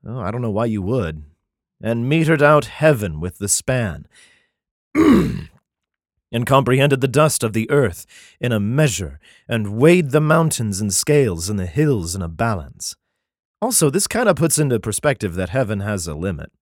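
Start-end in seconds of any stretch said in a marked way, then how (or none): 1.8-13.0 solemn, measured Bible reading; declaiming scripture, slowing at the end. Acted. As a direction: read it like a King James passage. Reads Isaiah aloud.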